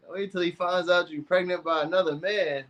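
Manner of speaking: high-voiced, scandalized echo; mock shock. Echoing Katie's comment back to her, in mock shock. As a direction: repeat it in a high, put-on aghast voice.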